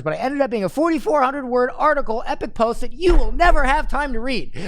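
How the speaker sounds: amused reading. Acted. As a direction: read it out in growing disbelief.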